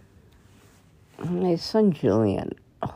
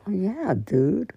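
mock casual reply; 2 semitones higher, slower than usual. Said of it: "No, I didn't say that".

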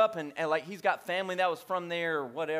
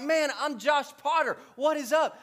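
excited greeting; 5 semitones higher than usual. Retold or imitated. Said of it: "he is like".

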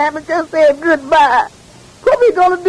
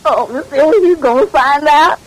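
tearful cry. Acted. Maid fears the father finding out.

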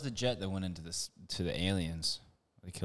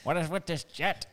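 offensive mock Chinese accent, pitched up; bad Chinese accent like Michael Scott; 8 semitones higher than usual. Mocking a Chinese officer who finds the jet, in a bad Chinese accent. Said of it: "Michael Scott Chinese accent".

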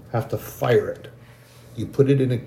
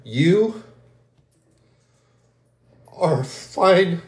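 higher, ringing prophetic proclamation; God telling believers they are forged in fire, proclaimed higher; 4 semitones higher, slower than usual. Acted. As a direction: speak as God blessing his people, rising. Prophetic word in God's voice.

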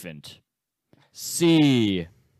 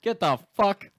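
yelling; 10 semitones higher, 7 dB louder than usual. Real, not acted. Yelling at Sam mid-quiz.

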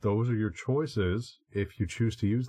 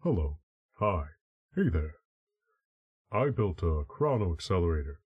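Winston from Overwatch. Retold or imitated. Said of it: "here's Winston from Overwatch".

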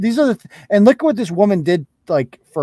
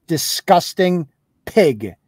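swearing tirade. Real, not acted. Insulting Shannon on stream.

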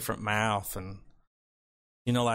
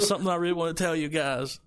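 laughing while quoting; 5 semitones higher, faster than usual. Retold or imitated. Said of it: "He said".

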